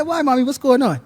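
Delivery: high, loud acted bewilderment; puzzled questioning. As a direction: ask it like a baffled grown child. Puzzled reply to excited mother, acted.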